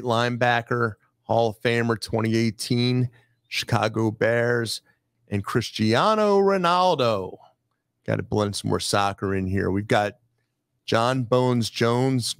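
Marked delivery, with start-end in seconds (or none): 5.4-7.4 drawn-out, high-pitched star introduction; hyped announcer call. Pretend. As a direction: stretch the name out high like a stadium announcer. Hyped roll call of jerseys.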